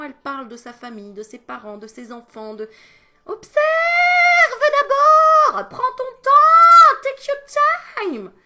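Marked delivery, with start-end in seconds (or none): 3.2-8.3 booming slow shout. Acted. Booming advice, very loud.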